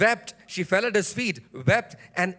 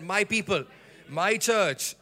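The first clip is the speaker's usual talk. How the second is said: weight on "my", falling away after it; possessive emphasis; slower than usual. Shown as a demonstration. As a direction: stress on "my" before each noun. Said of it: "speaking like that".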